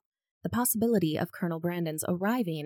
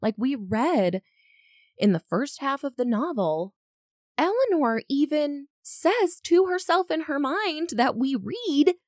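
worked up; 8 semitones higher, 6 dB louder than usual. Real, not acted. Getting worked up about Willoughby.

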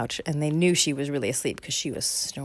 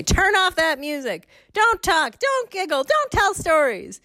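higher, slow stern orders; hint of stern granny; bossy grandma; 13 semitones higher, 4 dB louder, slower than usual. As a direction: bark out rules like a strict granny. Grandma scolding kids.

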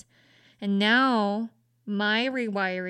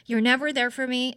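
anxious accusing; 3 semitones higher, 4 dB louder than usual. Retold or imitated. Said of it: "just being, just telling them".

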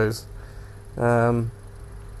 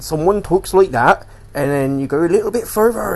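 put-on local British accent, pitched up; exaggerated local accent demo; regional British accent; 5 semitones higher, 4 dB louder than usual. Shown as a demonstration. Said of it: "a billion different accents".

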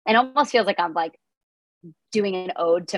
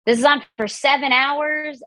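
mock quip; 9 semitones higher than usual. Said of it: "And, like".

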